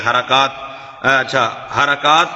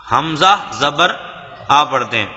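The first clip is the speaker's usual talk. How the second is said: slow demo; 3 semitones lower than usual. Shown as a demonstration. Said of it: "الف زبر آ نہیں پڑھتے".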